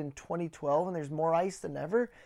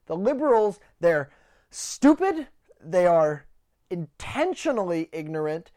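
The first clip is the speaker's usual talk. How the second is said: angry rant; 4 dB louder than usual. Real, not acted. Ranting to camera about liberals, real anger. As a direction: spit out the words, fed up and furious. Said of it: "I sound like I'm angry now".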